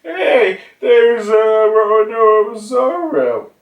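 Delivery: alarmed shout. Retold or imitated. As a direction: shout to the crew, slow on the name. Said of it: "they're being like".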